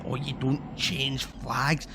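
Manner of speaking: slow, mocking sing-song of the flag defenders; mocking quote. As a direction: drag it out to mock them. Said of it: "they're all adamant, like".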